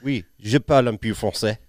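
joking attempt at French; cringy French accent. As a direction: play up a corny French accent. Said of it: "cringy impersonation".

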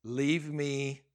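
drawn-out exasperated plea, retold; mock-exasperated telling God to back off; frustrated. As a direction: stretch out alone in weary protest. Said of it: "he's mad, and I mean, he's so frustrated".

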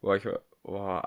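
strained breath before a sneeze; fighting off a sneeze; holding back a sneeze. Real, not acted. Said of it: "Oh, ich muss".

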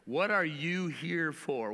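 slow question. Shown as a demonstration. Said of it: "what's this air fryer for?".

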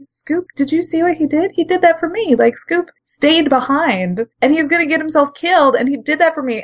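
imitating Starscream's awe. Starscream voiced in retelling.

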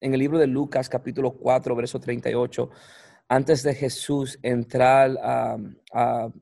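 Spanish with an American accent; English speaker's halting Spanish. Real, not acted. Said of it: "Perdón, mi español".

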